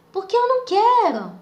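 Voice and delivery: high, loud snapped-back refusal; retold irritated retort. Pregnant woman answering back after an hour of nagging, irritated. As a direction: re-enact losing patience, voice jumping up. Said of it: "Só que eu já falei nervosa".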